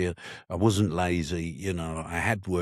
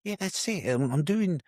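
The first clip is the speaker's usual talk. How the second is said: 1 excited realisation; 6 semitones higher than usual. Retold or imitated. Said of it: "I suddenly thought".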